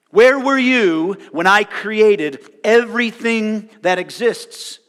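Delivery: God confronting Job from the storm, loud and booming; thunderous booming voice. Retold or imitated. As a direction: thunder each question down at Job. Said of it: "he speaks loudly with a thunderous, booming voice".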